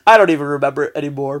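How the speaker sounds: laughing loudly at himself, fast. Real, not acted. Laughing at himself after forgetting his point. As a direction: laugh it off, rushing the words.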